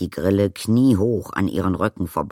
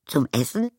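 high, appalled question; horrified little question; 8 semitones higher than usual. A narrator's reading. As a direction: ask it aghast, voice jumping up. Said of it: "fragte Arrietty entsetzt".

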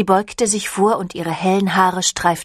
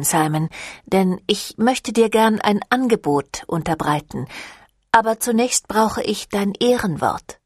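lightly voiced vampire leader; 3 semitones higher than usual. Camille offers to turn the curse into blessing, lightly voiced vampire leader.

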